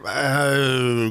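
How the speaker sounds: ordinary delivery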